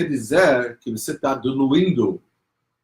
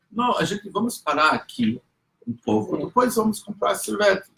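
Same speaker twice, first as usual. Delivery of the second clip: stalling mother; 9 semitones higher than usual. Retold or imitated.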